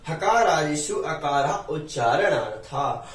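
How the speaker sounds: slow, measured Sanskrit quotation; slow recitation. Shown as a demonstration. Teacher quoting a grammar rule to students, slow recitation. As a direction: recite the rule slowly, word by word.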